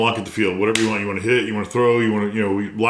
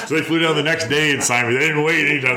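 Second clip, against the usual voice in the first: real laugh through the words, pitched up; 5 semitones higher than usual. Real, not acted. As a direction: chuckle as you tell it. Laughing while retelling signing.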